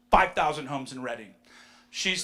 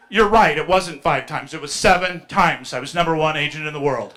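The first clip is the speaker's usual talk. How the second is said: triumphant retort; 11 dB louder than usual. Retold or imitated.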